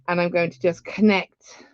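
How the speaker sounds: ordinary talk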